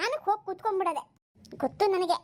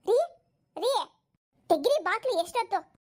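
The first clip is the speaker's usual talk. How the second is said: calling out; 4 semitones higher than usual. Acted. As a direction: call him out, impatient. Wife calls husband from door. (ಬಾಗಿಲ ಹೊರಗಿಂದ ಗಂಡನನ್ನು ಕೂಗುವುದು)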